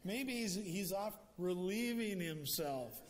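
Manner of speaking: lightly hammed-up taunt; playful retold jeer, slowing at the end; mocking. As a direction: tease the rivals with pretend helpfulness. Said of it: "Elijah goes on mocking".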